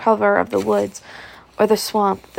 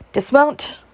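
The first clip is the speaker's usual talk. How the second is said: harsh command; 5 semitones higher than usual. A narrator's reading. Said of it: "a harsh voice crying a command".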